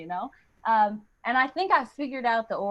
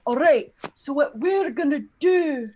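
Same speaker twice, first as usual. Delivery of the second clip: higher, hammed-up angry Scottish accent; 5 semitones higher than usual. Scots planning against British invaders, mock angry Scottish accent. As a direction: plot revenge in a fierce mock Scottish accent. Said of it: "they were really angry".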